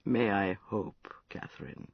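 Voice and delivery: put-on drunken, maudlin confession. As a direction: loose and sorry for himself. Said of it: "Prince, you sound terribly drunk".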